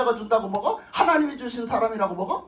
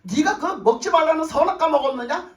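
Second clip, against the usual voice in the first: God questioning Adam; 4 semitones higher, 4 dB louder than usual. Acted. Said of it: "하나님 뭐라 하셔서 아담한테".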